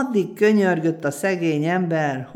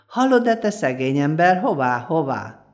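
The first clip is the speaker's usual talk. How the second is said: guard calling out; 3 dB louder than usual. Acted. Door guard stopping the poor man, loud call. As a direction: hail him from the door, stopping him.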